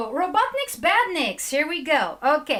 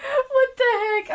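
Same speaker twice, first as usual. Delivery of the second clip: laughing; 9 semitones higher, 3 dB louder than usual. Real, not acted. Still laughing.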